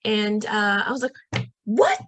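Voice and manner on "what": squeaky high shocked what; mock outrage at missing the trip. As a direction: jump up in pitch, stunned. Shocked at being left out.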